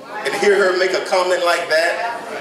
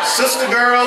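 raised call; 5 semitones higher than usual. Shown as a demonstration. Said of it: "name called twice, rising then falling".

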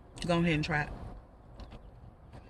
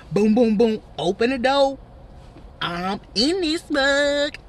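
loud; 6 semitones higher, 6 dB louder, much slower than usual. Pretend. Knocking at the door.

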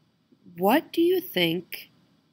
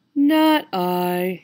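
hissing cat; 3 dB louder than usual. Acted. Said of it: "hissed the cat".

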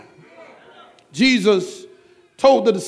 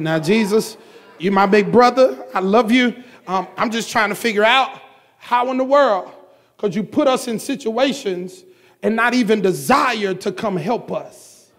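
softer, talking to a big brother; intimate plea to Jesus; 2 semitones lower, 3 dB quieter than usual. Acted. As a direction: gently reason with Jesus, lowering the voice. Preacher speaks intimately to Jesus.

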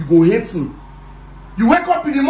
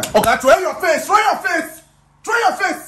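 commands rising higher each time; angry order; 5 semitones higher than usual. Acted. Boss ordering the boy to look away, rising anger. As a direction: snap the order out, climbing in pitch.

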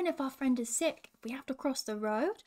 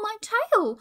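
higher, louder wail, building panic; louder panicked cry; 10 semitones higher, 8 dB louder than usual. Acted. Roo panicking harder about his tail, higher wail. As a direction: push the panic up a notch. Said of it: "screamed Roo".

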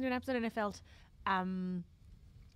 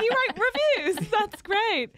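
retold remark; 10 semitones higher, 6 dB louder, slower than usual. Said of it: "I was like".

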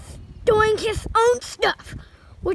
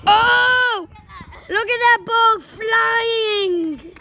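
slow, louder amazed call; excited shout; 2 semitones higher, 4 dB louder, much slower than usual. Real, not acted. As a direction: cheer as the ball sails. Ball kicked high.

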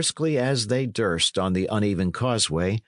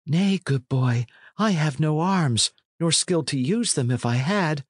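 lightly voiced youth, higher pitch; a hint of a harmless lad pleading no threat; lightly raised, youthful voice; timid lad; 6 semitones higher than usual. Plays the lad replying.

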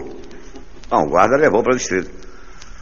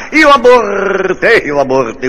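panicked scream; 10 semitones higher, 6 dB louder, slower than usual. Acted. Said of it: "começou a gritar".

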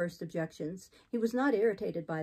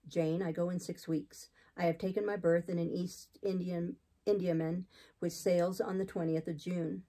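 lightly voiced austere man, slightly lowered; hint of a stern clergyman; resolute missionary; 2 semitones lower than usual. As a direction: announce it soberly, as a settled plan. Voices Saint John.

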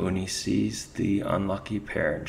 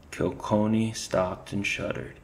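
ordinary delivery, nothing marked

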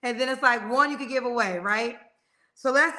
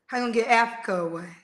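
incredulous replay; 3 semitones lower, faster than usual. Retold or imitated. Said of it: "It gave me flashbacks".

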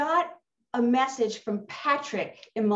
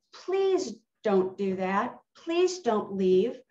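retold plea; slower than usual.

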